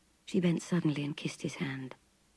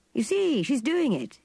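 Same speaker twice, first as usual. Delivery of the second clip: high, louder triumphant burst; victorious exclaim; 8 semitones higher, 3 dB louder than usual. A narrator's reading. Clifford boasting to Connie that the chair climbs, triumphant. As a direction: crow over the little win. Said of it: "exclaimed Clifford, victorious".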